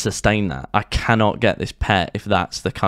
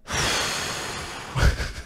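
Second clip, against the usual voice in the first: long weary sigh; 8 dB quieter than usual. Real, not acted. After rage.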